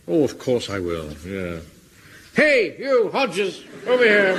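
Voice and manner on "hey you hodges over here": calling out. Acted. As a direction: shout him over from a distance. Captain calls across to warden.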